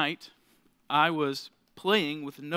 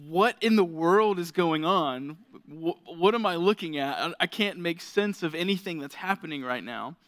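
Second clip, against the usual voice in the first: put-on bewildered baby. Dad voicing his baby son at the mirror, mildly bewildered. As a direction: lightly act out a baby's confusion. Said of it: "from happy, carefree baby to".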